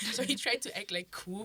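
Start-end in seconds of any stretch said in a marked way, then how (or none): none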